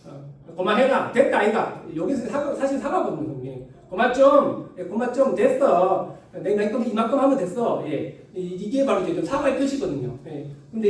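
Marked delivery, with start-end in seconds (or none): 0.6-1.8 Gyeongsang dialect. Retold or imitated. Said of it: "경상도 사투리가". 3.9-7.8 Gyeongsang dialect. Retold or imitated. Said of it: "경상도 사투리가".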